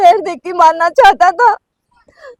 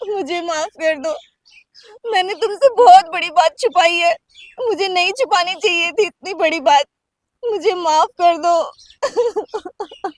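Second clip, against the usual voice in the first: tearful confession. Acted. Wife confesses crying.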